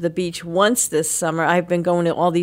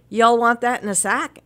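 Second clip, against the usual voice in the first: southern clerk imitation; 4 semitones higher than usual. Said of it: "she'd say".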